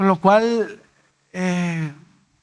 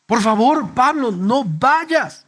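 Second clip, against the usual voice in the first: slow, drawn-out plea of weeping friends; pleading brothers; 3 semitones higher, much slower than usual. Retold or imitated. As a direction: beg him, stretching each word. Brothers beg Pablo not to go.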